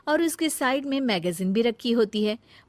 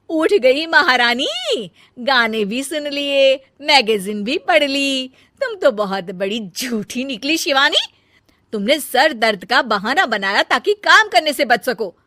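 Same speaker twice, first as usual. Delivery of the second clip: elder bahu scolding her lazy sister-in-law; sarcastic scolding; 4 semitones higher, 9 dB louder than usual. Acted. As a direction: sneer at the so-called queen.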